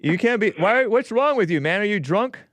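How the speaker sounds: host shocked at caller's odd Philadelphia act; incredulous. Real, not acted. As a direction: react like the caller has lost his mind. Host baffled by weird caller.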